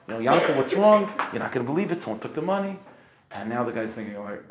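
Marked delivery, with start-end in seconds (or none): 0.2-2.8 alarmed calling out. Retold or imitated. Wife rushing out, alarmed exchange.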